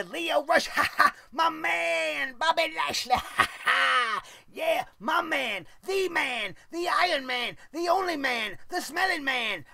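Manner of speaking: high, shouted hype-man voice with fake laughs; mocking Lio Rush hype. Vlogger mocks Lio Rush shouting praise for his wrestler, hammed-up and high. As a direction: ham up the annoying manager hyping his guy. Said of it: "The whole time we gotta hear".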